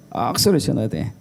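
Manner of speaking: falling Gyeongsang accent; Gyeongsang dialect. Shown as a demonstration. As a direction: repeat it in Gyeongsang regional speech. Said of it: "경상도는 어떻게 하죠?".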